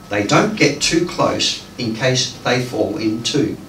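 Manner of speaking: measured phrases with pauses between; deliberate storytelling poetry delivery; poem reading. Acted. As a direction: read a dream poem aloud to an audience. Reads numbered short poem.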